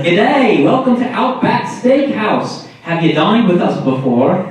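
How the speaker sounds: hammed-up Australian server welcome; mock Australian accent. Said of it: "they're always like".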